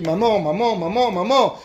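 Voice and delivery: mild call for mother; child calling for his mother; crying for mom. Retold or imitated. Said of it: "je crie".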